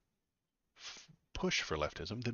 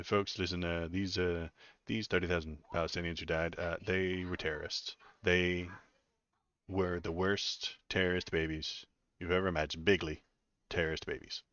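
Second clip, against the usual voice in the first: a light Trump voice, folksy and bragging, only slightly changed from his own; mock Trump at a rally, half-hearted; Donald Trump impression. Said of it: "should I do the voice?".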